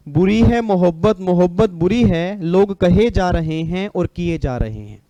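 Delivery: slow, lilting couplet delivery; shayari recital. Acted. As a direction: recite it measured and stretched, like a poet. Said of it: "एक line बोलूंगा बस". (धीमा शायराना लहजा)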